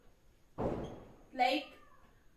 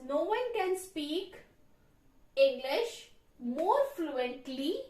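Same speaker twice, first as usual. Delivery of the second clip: slow dictation; slower than usual. Shown as a demonstration. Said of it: "So it will become like this".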